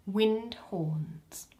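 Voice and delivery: soft whispered stage direction. A narrator's reading. Narrator whispering the stage direction. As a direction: murmur the direction aside.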